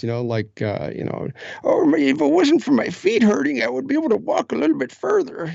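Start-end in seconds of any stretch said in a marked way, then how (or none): 1.6-5.5 put-on high-pitched old man; a high, complaining old man. Shown as a demonstration. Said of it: "I love doing the old man voice".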